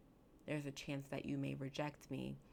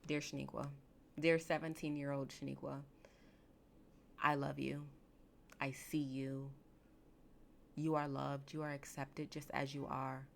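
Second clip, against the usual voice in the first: tender letter to younger self. Pretend. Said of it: "I would say".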